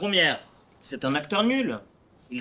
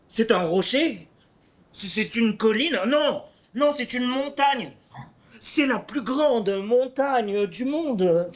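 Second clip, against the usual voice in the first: rising higher with growing wonder, slowing on the last line; describing a landscape; 5 semitones higher than usual. Acted. Cyrano to the vicomte, describing the nose as a landscape, building wonder. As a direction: marvel at the nose like a mountain view. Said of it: "un ton qui décrit un paysage".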